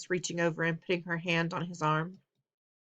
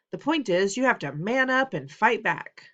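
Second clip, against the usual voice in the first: forceful father; 4 semitones higher, 5 dB louder than usual. Acted. Father berating son.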